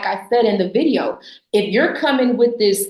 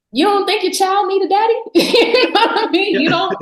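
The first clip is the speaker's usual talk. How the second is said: mock pointed question; 8 semitones higher, 3 dB louder than usual. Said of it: "Like, so girl".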